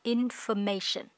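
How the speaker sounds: information said slowly, with a heavy "shən" ending; careful teacher model; slow model word. Shown as a demonstration. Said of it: "âm ơ và âm sần nặng".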